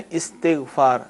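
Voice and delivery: استغفار said as istighfaar with an initial short i; correct pronunciation. Shown as a demonstration. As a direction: demonstrate استغفار clearly, i under the alif, long aa. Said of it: "لیکن جب کہا جاتا ہے نا". (استغفار زیر والے الف سے، صحیح تلفظ)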